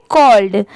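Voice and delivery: "कॉल्ड" as one syllable, closing on ld; pronunciation demo. Shown as a demonstration. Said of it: "इसे हम क्या पढ़ेंगे". ("कॉल्ड" के अंत में ड की आवाज़ के साथ)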